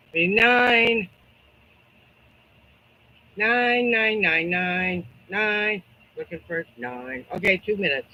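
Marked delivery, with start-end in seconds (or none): 3.4-5.8 rapid repeated number calling; auctioneer. Pretend. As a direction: chant the count like an auction. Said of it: "I feel like an auctioneer".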